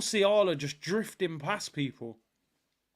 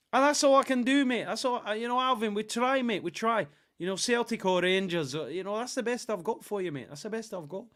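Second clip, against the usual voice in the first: higher-pitched amateur Scottish accent; 4 semitones higher than usual. Shown as a demonstration. Streamer apologises to chat for his impression, Scottish accent. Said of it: "I'll try and do a Scottish accent".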